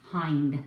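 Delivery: Hind as one syllable with a long "eye" vowel; correct surname pronunciation. Shown as a demonstration. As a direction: say Hind with a silent final E. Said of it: "the correct pronunciation of my last name".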